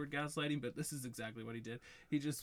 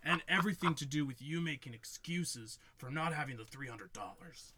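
giggling while quoting; half-laughing mock retort; laughing through Chet's line; 4 dB louder than usual. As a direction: laugh as you deliver his put-down. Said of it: "he goes".

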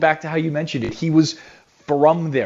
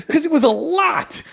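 laughing it out, voice pitched up. Real, not acted. Radio guest laughs recalling the huge float, laughing. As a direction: breaks into a real laugh mid-answer.

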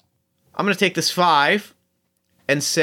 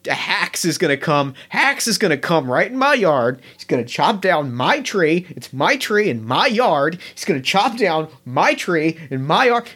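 lightly voiced goblin rambling, faster in spots; trapped goblin ranting about his tree; grumbly goblin rant. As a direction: rant on, half panicked, half petty. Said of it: "Chops gets real grumbly".

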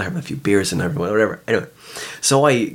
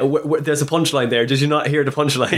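pitched-up, put-out comedian; mock exasperation; 4 semitones higher than usual. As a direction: plead with a crowd that missed the joke. Acting a comedian to missed audience.

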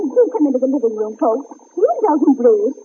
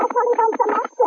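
parrot voice; 8 semitones higher than usual. Acted. Parrot answers back.

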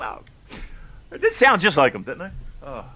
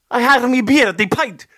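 loud, higher mock British; British accent; 7 semitones higher, 6 dB louder than usual. Host fumbling his British pub line, mock British accent. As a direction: botch a British accent at full volume. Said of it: "I was doing my British".

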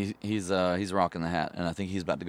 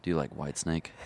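low, softer, dead-serious question; 4 semitones lower, 5 dB quieter than usual. Retold or imitated. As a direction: imitate someone asking in total earnest. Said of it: "she gets real serious".

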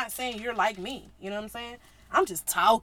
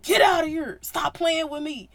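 louder, higher mock scolding; mock angry Jesus; 4 semitones higher, 4 dB louder than usual. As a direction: chase them out, half-playful. Jesus voiced chasing people.

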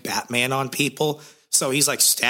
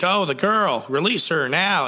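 higher, urgent mock command; commanding hero; 5 semitones higher than usual. Spectre ordering the kidnapper to let the woman go, mock heroic. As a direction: demand her release. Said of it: "And Spectre's like".

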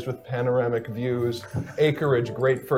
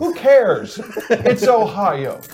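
dismissive; 7 semitones higher, 6 dB louder, much slower than usual. Real, not acted. Dismissive outburst.

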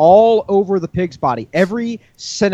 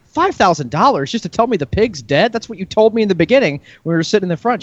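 outraged pig owner; 5 semitones higher than usual. Acted.

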